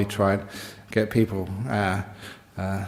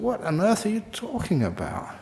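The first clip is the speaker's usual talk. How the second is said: high-pitched mock bafflement; retold astonishment; 9 semitones higher, 4 dB quieter than usual. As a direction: act out a baffled reply, pitch swooping up. Retold astonished reply to complainers.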